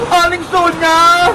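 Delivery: whining tearful plea; crying. Acted. Hungry girl begs Aling Sonia for help, crying. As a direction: beg through hammed-up tears. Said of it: "huwag ka nang umiyak".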